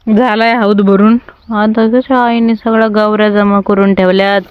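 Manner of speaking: ordinary talk, nothing marked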